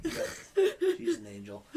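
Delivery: high, laughing gush about her; laughing adoringly. Real, not acted. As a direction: squeal it through a laugh. Gushing about fiancée while laughing.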